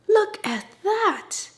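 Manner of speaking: slow, breathy whisper of awe; awed whisper. Real, not acted. Showing viewers the cheesy nachos, in a slow whisper. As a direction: hush it out slowly, amazed by the food.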